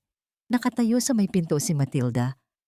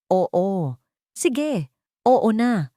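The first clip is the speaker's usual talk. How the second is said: shouting back; 4 semitones higher, much slower than usual. A narrator's reading. Dante snaps under Liwayway's accusations, shouting back. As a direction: give in with a higher, restrained shout. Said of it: "Sigaw nito pabalik".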